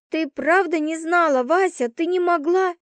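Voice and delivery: high, pressing disbelief. A narrator's reading. Roommate questioning Vasya, high disbelief. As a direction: plead for her to say no.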